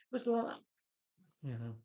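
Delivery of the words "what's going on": high-pitched mock alarm; math teacher impression. Retelling the math science teacher's confusion, high mock panic. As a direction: squeal it as a comic flustered teacher. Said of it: "the math science teacher is like".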